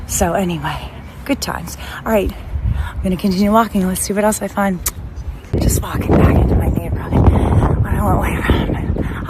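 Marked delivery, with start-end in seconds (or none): 5.6-9.3 breathless after a brisk walk; panting a little between words; out of breath. Real, not acted. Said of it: "out of breath".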